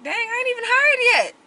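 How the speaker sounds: high, incredulous retort; a hammed-up dang, not even hired; mock disbelief. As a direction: act stunned he's already threatening to fire you. Retold reaction to being threatened.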